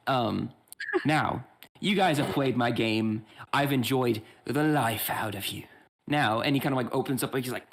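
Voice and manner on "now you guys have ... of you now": slow host voice. Acted.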